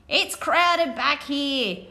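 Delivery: very slow, drawn-out moaning sloth; slow complaining sloth voice; sloth's moan. Acted. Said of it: "moaned a brown-throated sloth".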